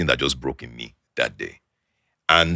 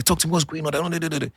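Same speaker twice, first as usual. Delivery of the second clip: faking being mad; 12 semitones higher, faster than usual. Retold or imitated. Pressing his girlfriend to talk, in a faked mad tone. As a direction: pretend to be upset with her, high and pushy. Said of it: "I started acting mad".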